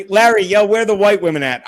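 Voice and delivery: loud, comic film-line holler; movie-quote call-out. Acted. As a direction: call out to Larry, loudly quoting a film. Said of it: "A la Blazing Saddles".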